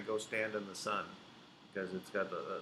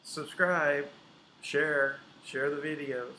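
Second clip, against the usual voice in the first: upbeat outro; 3 semitones higher, 3 dB louder, slower than usual. Real, not acted. Outro call to viewers.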